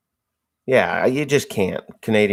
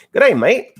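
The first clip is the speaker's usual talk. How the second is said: mock Australian accent; 11 semitones higher, 5 dB louder than usual.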